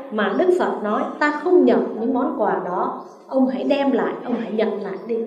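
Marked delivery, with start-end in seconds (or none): 1.2-5.2 calm refusal. Acted. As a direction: hand the insults back without heat. Buddha calmly refuses the insults.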